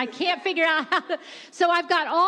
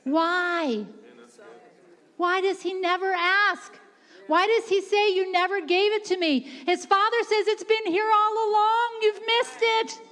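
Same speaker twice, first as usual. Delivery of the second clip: raised, insistent preacher's delivery; impassioned preaching; 4 semitones higher than usual. Real, not acted. Preacher asks why the son never asks, impassioned and rising. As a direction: preach it, climbing higher to the end.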